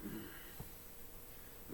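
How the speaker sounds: breathy satisfied nasal hum; nose exhale hum. Shown as a demonstration. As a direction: let out a contented nose exhale. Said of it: "So you just kinda go".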